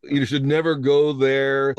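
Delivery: drawn-out mock scolding; mock pearl-clutcher, stretching the words; pearl-clutching. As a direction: slowly imitate a scandalized scold. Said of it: "libertarians who clutched their pearls".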